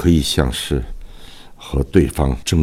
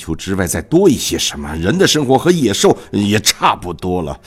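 put-on measured stage recitation of an old king; King Lear monologue. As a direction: declaim it like a wronged old king. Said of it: "下面我给大家朗诵一段独白吧".

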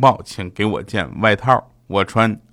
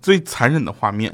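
normal talking voice

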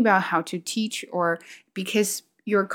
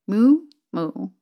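two spoken moos; imitated cow moo. Shown as a demonstration. Wondering how Chinese cows sound, imitated moo. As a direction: moo twice as words. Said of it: "what did Chinese cow sound like".

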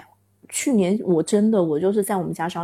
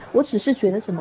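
usual speaking voice

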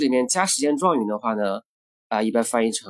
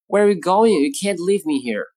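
upset, natural speed; 5 semitones higher than usual. Shown as a demonstration. Teacher acts a person afraid of being left behind. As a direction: sound alarmed at being left. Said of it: "同样的，where are you会弱读成".

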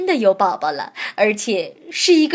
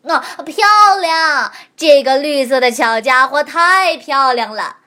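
dog voice; 3 semitones higher, 7 dB louder than usual. Acted. Dog answers admiringly.

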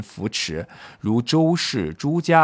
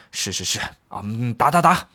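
fawning yes-men; 2 semitones lower than usual. Acted. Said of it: "与会者为巴结吕后呢，多复会说是".

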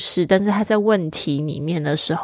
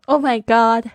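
mock excitement; 3 semitones higher than usual. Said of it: "然后还有装".

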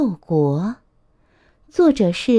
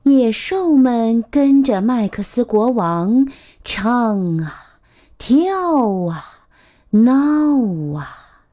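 put-on measured, expressive storytelling to a child; picture-book narration; 3 semitones higher, much slower than usual. A narrator's reading. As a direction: read a picture book aloud to little ones.

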